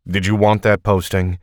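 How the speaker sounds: snapped. Acted. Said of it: "Will snapped".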